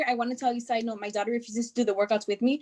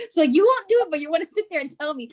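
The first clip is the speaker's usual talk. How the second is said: higher, louder mock indignant comeback; mock indignant retort; 4 semitones higher, 3 dB louder, faster than usual. Mother retorting to her daughter, mock indignant. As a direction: tease back at the bossy kid.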